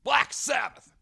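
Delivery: high, drawn-out arena announce; announcing a metal band, high and stretched; announcer call. Shown as a demonstration. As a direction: call it out like a stage MC. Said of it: "you have to be, like, announcing them".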